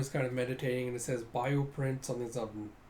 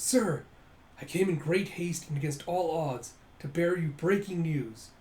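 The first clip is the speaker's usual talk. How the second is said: raised, eager messenger voice; urgent servant; 3 semitones higher, 3 dB louder than usual. Acted. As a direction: report breathlessly important news to the master. Servant reports urgent news to master.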